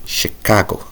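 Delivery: whispered Chicago with the local accent at the end. Shown as a demonstration. Gamer showing the weird accent on Chicago. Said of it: "with that weird accent at the end".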